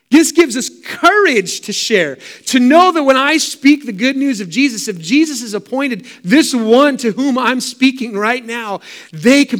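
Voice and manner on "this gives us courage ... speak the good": This gives us courage to share proclaimed higher and louder; bold proclamation. Shown as a demonstration. Preacher to congregation, proclaiming boldly. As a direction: ring it out with conviction.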